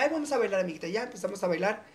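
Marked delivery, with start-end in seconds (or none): 0.0-0.9 high, bright-eyed invite to dance; a playful high call to a friend; excited invite. Retold or imitated. Inviting a friend to dance, playful and high. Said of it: "yo le dije".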